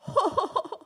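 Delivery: high, hammed-up villain chuckle; gloating laugh. Thief bird keeping the toy, gloating laugh. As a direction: laugh over stolen spoils.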